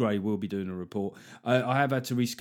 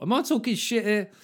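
pitched up, a touch louder, worried comic; mock comedian self-doubt; 9 semitones higher, 3 dB louder than usual. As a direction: ask it like a comic who's unsure. Voicing a comedian's inner doubt.

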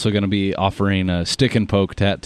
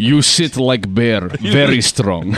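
put-on Russian accent; slower than usual. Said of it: "do tattoos in a Russian accent".

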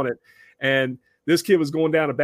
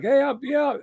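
put-on drunk kid voice; 11 semitones higher than usual.

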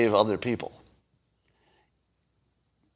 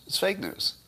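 mock high answer; 8 semitones higher, 7 dB quieter than usual. Answering own question mockingly.

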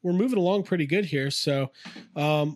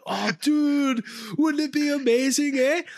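higher, hammed-up Canadian accent; mock Canadian, pitched way up; 9 semitones higher, slower than usual. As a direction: play an excited Canadian with a big "eh". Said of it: "I'll just do my Canadian voice".

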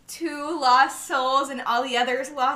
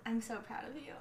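tearful goodbye; 15 dB quieter, faster than usual. Real, not acted. Emotional goodbye, whispered.

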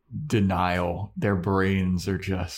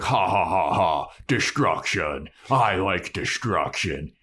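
slow, lower gloating troll; 3 semitones lower than usual. Retold or imitated. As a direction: relish the destruction, slowly. Troll voiced, retelling scene.

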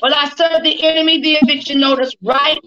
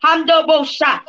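speaking in tongues. Real, not acted.

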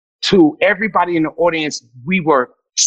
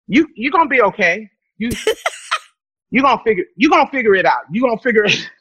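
laughing pity; 4 semitones higher, faster than usual. Retold or imitated. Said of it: "they would look at me and go".

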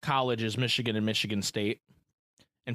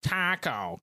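put-on "taco" in a broad Michigan accent; 2 semitones higher than usual. Recalling being told to say taco by Bostonians, Michigan accent. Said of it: "in my fucking accent".

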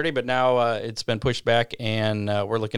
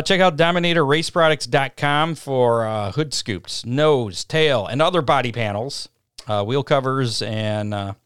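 radio ad read. Acted. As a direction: sell the parts like a race announcer. Sponsor ad read.

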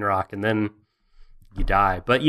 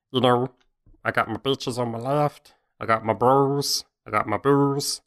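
viking voice; 3 semitones higher than usual. Acted. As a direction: play a dim, goofy Viking bragging. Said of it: "You're sounding like Redneck Gollum".

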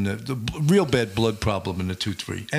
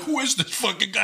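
higher, indignant, lightly voiced sergeant; a touch of an offended sergeant; annoyed sergeant; 11 semitones higher than usual. Housing sergeant reacts to the new cop, mild indignation. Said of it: "And he was like".

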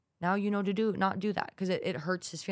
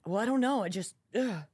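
higher, whiny put-on voice ending in a groan; mock whiny vagueness; 4 semitones higher than usual. Imitating someone with no answer, a mock whiny sigh. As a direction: sound helpless and vague.

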